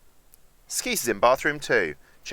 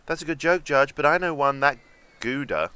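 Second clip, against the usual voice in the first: mock joke reply; 5 semitones higher, 5 dB louder than usual. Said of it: "I'd have gone with".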